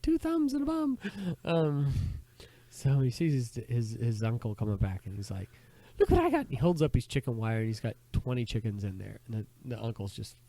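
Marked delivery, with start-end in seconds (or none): 6.0-6.4 put-on high, loud boy's boast; joke boy voice. Boy showing uncle his catch, high boyish voice. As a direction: crow it in a pitched-up lad voice. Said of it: "The boy's like".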